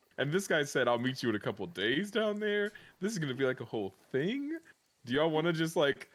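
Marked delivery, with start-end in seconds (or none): none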